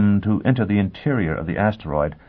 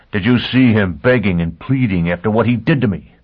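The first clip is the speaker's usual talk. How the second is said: angry; 4 dB louder than usual. Acted. Foyle raging at Joseph.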